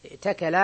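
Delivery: ائتكل as i'takala, glottal stop before t; hamza kept. Shown as a demonstration. Teacher repeats the derivation from eating, ائتكل with audible hamza. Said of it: "عندك افتعل من الأكل".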